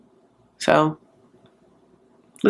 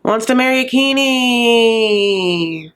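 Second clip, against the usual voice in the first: slow whispered scorn, dragging each word; mock hushed put-down; 3 semitones higher, much slower than usual. Brother tipping off the dad about the groom, a hushed sneer. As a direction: lean in and whisper it like a snide tip-off. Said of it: "If the brother's like".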